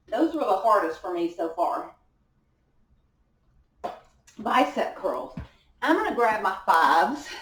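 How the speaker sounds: talking out of breath, panting; winded between sets, breathless words. Real, not acted. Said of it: "I'm out of breath".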